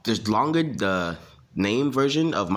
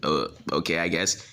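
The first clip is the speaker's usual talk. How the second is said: put-on reluctant girl; 3 semitones lower than usual. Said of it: "And she'd be like".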